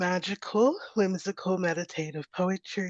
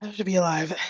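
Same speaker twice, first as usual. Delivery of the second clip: whispered; faster than usual. Real, not acted. Breathless after stairs.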